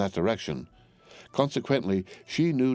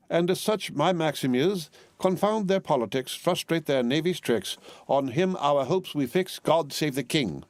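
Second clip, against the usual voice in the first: proud loyal recitation; 8 semitones higher than usual. A narrator's reading. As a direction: declaim the motto with pride. Miss Pross recites loyal motto.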